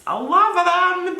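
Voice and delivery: high, drawn-out gushing on "love". Real, not acted. Vlogger tells viewers about her shoot photos, gushing. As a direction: gush with a high, stretched-out squeal of affection.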